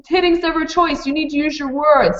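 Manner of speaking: lightly voiced teacher telling off a toddler; teacher correcting child. Teacher voicing correction to young child.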